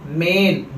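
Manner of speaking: मेन with a long, stretched 'ay', as in main; long vowel main. Shown as a demonstration. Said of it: "accent बदल जा". (मेन में खिंचा हुआ 'ए')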